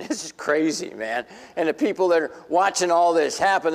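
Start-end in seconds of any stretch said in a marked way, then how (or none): 0.1-1.2 amazed chuckle; giddy disbelief; laughing. Retold or imitated. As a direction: laugh through the words. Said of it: "they start laughing".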